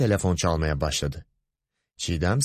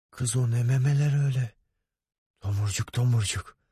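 ogling boss turning to mock alarm; leer, then warn her with rising pitch; lightly voiced lecherous boss; 5 semitones higher than usual. Boss ogling, then warning secretary. (ağzı sulanan, sahte korumacı müdür)

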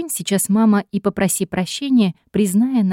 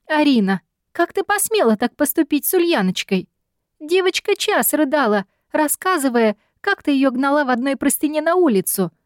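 booming yell; 6 semitones higher than usual. A narrator's reading. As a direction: yell it down the phone. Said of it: "громогласный ор".

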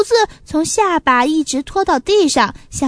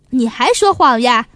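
stern angry rebuke; 4 semitones lower, 4 dB louder than usual. Acted. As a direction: scold the liar. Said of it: "老板生气了".

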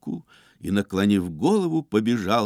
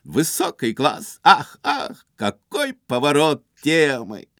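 laughing; 4 semitones higher, 3 dB louder than usual. A narrator's reading. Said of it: "заливаясь смехом".

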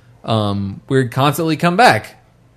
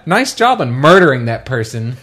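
sarcastic mom voice; 5 dB louder than usual. Retold or imitated. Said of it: "like a mom type character".

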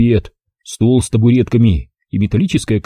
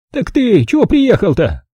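put-on higher, brisk old-woman voice; old village granny; 10 semitones higher than usual. Old granny greeting the city visitor, high old-woman voice. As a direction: voice the feisty village grandmother.

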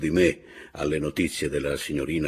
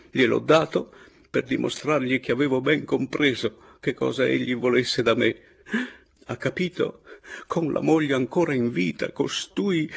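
higher-pitched, indignant outburst; bitter indignation; 6 semitones higher than usual. A narrator's reading. Signorina explaining the money he took, indignant. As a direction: let the bitterness climb in pitch. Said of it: "si strinse le pugna".

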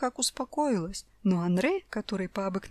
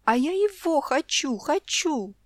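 higher, louder whiny demand; child's tantrum; 7 semitones higher, 5 dB louder, slower than usual. A narrator's reading. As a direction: stamp your foot like a spoiled girl. Child tantrum over dress. (капризный детский крик)

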